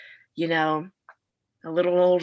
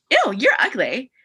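a hammed-up little "ew" of disgust; mock disgust; 5 semitones higher, 5 dB louder than usual. Friend scrolling a guy's Instagram, mock disgusted. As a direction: sneer it playfully, half-joking. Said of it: "go through his Instagram and be like".

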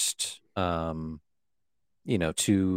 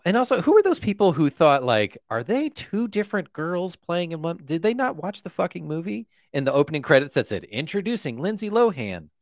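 high, loud disbelieving rant; can't believe people missed it; incredulous; 9 semitones higher, 3 dB louder than usual. Real, not acted.

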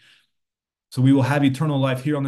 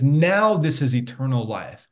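strong emphasis on "Now"; stress on Now. Shown as a demonstration. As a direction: make "Now" the point of the sentence. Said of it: "different point of emphasis on this".

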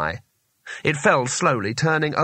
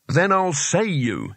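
shouted; 4 semitones higher, slower than usual. Acted. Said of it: "he shouted".

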